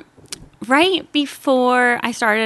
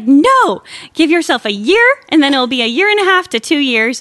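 firm advice; 2 semitones higher, 5 dB louder than usual. Retold or imitated. Quoting aunt's firm advice.

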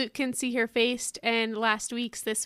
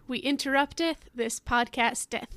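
town crier; 3 semitones higher than usual. Acted. Mock medieval ad opening.

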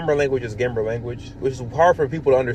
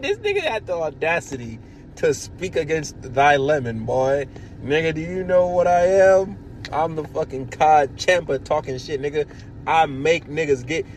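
mock grandiose boast.

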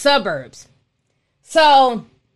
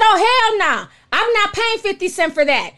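indignant; 6 semitones higher than usual. Retold or imitated. Refusing to pay for sauce.

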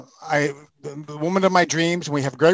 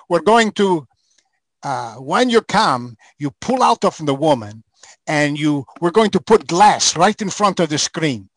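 imitating the Hungarian director; 3 semitones higher than usual. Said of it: "the Hungarian producer director".

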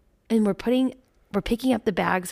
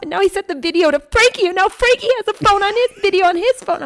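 higher and louder, rising to a shriek; imitating daughter screaming; 7 semitones higher, 6 dB louder than usual. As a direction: copy the kid's outraged tattling. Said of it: "I'm screaming like her".

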